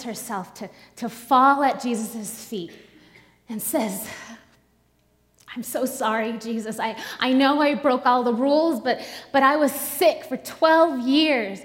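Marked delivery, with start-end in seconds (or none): 5.5-11.6 1 anxious pleading confession. Acted. Woman confesses to Jesus, pleading.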